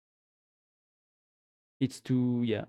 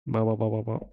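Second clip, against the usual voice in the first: low "bah bah" imitating German talk; mock German babble; 5 semitones lower, faster than usual. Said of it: "is that how they do?".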